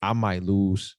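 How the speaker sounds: low, soft confession of fear; broken down, retold. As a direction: quietly relive breaking down to Ma. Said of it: "And just broke down like".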